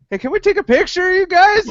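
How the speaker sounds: high, quick, eager photo request; excited fan. Acted. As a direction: ask it fast and high like a fan. Cops excitedly asking for a photo.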